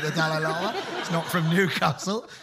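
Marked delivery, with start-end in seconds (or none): 0.0-0.7 mock Dalai Lama. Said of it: "that so wasn't a Newcastle accent".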